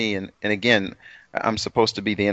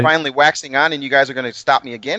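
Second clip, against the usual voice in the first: mock outrage; 3 semitones higher, faster than usual. Real, not acted. The speaker protests being cut off.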